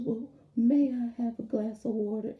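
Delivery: put-on boy asking properly, a bit sulky; polite child voice. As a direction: kid correcting himself for grandma. Grandson corrects his grammar.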